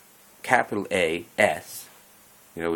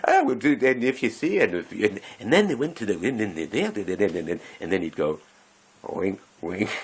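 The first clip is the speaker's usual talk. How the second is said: odd guy's rambling innuendo; 4 dB louder than usual. Retold or imitated. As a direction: babble suggestively, then land the wink. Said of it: "And he's going".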